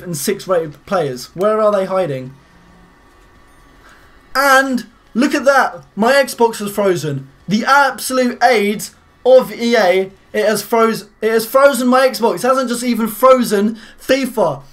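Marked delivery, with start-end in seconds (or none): 4.3-14.6 angry. Real, not acted. Xbox freezes mid pack opening.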